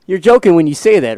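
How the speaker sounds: laughing disbelief at the co-host. Real, not acted. Co-host laughs at his partner's claim, laughing. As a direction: chuckle through the words.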